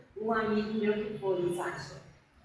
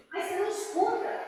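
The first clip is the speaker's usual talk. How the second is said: surprised question; 8 semitones higher than usual. Retold or imitated. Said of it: "o colega dela falou assim".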